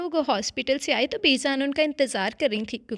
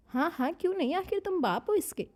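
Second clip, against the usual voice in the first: smiling; 7 semitones higher than usual. A narrator's reading. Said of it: "बीजान मुस्कुराकर बोली".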